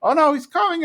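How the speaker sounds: high, loud panicked yelp; mock panic. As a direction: squeal it out like you've been caught. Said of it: "they're like".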